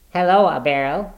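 uncordial greeting. Acted. Brother greeting his sister, not cordial. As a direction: greet with a cool edge.

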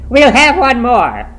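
high, shouted command; wild, loud triumph; triumphant. A narrator's reading. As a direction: order him exultantly and urgently. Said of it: "she cried triumphantly".

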